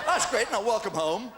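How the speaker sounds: slow, laughing mock reply; own quote, laughing. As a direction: drag it out through laughter. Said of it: "And I said".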